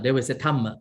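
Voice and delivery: "Dhamma" said as "tamma" with a plain T; Thai-style Dhamma. Retold or imitated. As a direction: swap the D H for a hard T in "Dhamma". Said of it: "they pronounce it like Dhamma".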